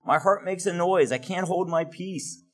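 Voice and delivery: a touch of anguish, lightly voiced Jeremiah; pained. Teacher voices Jeremiah pained at news of war, mild anguish. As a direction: read it as a heartsick lament, understated. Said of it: "how he feels with this news".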